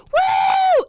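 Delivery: high, loud party whoop; drunk woo. Retold or imitated. Friend mimics her drunk self whooping. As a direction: whoop like a tipsy party girl. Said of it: "the life cycle of Francesca getting drunk".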